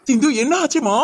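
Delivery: high, tearful put-on concern; mock crying. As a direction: fake a sob asking what happened. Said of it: "நடிப்பெல்லாம்". (நடிப்பு அழுகுரல்)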